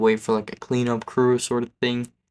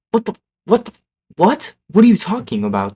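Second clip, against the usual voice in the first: high, stammering disbelief; incredulous; 9 semitones higher, 6 dB louder than usual. Retold or imitated. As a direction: retell it in baffled, high-pitched disbelief. Baffled reaction to absurd plan.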